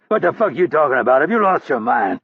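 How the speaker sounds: stunned by the stranger calling him dad; baffled outburst. Acted. Hurley confused by Rapp.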